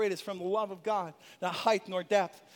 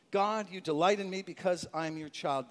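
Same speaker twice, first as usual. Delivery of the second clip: affirmation; 3 semitones lower than usual. Shown as a demonstration. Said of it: "How do we strengthen ourselves".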